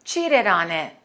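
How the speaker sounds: Cheated on it linked as cheatedonit; linked words. Shown as a demonstration. Teacher linking cheated on it for students. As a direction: run Cheated on it together smoothly. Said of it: "let's link the words cheated on it".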